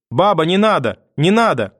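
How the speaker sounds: put-on high, urgent child's plea; terrified pleading. A narrator's reading. Boy shielding his mother begs grandmother, frightened cry. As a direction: beg in alarm, pitch jumping. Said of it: "плача от ужаса".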